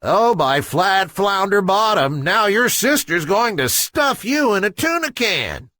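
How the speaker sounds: half-sung lament of a worried fish; flounder crying out. Acted. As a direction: wail it with a sing-song lilt. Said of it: "cried out".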